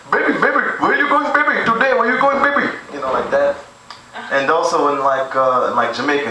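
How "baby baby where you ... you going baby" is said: high, hammed-up Indian-accented sweet talk; sing-song the pet names way up high; womanizer in India. The womanizer hollering at girls in India, high mock accent. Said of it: "he'd be like".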